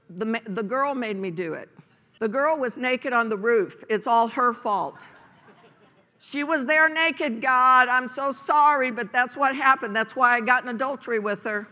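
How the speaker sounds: hammed-up excuse voice; mock excuse. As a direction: play the guilty man making excuses.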